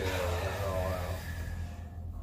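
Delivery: words on a long exhale; exhaling while speaking. Shown as a demonstration. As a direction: breathe out as you say it.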